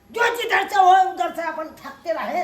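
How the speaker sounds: furious demand; angry shout. Acted. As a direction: yell it in outrage. Angry son-in-law confronts family.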